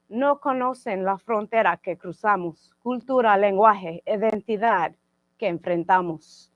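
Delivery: rhythmic bilingual recital in English and Spanish; measured spoken ballad, line by line; poetry reading. Acted. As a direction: declaim each line as verse, falling at its close. Poet reads corrido poem.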